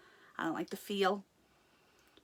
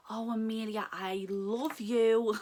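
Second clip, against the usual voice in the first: gushing; 2 semitones higher, much slower than usual. Real, not acted. Gushing over pin designer.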